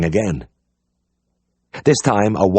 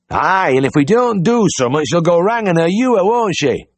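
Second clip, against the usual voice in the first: cheery high farmer's voice; bright, keen country caller; eager Yorkshire farmer; 10 semitones higher, 3 dB louder than usual. A narrator's reading. Farmer at the door, cheerfully asking for the vet. Farmer worrying about the cow.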